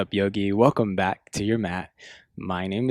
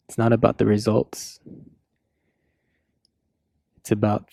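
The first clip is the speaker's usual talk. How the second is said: measured yoga cues with long pauses; yoga class guidance. Real, not acted. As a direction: guide them through each breath and pose, unhurried.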